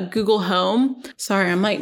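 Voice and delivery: talking with a dry mouth; dry-mouthed, sticky words. Real, not acted. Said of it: "my mouth is so dry".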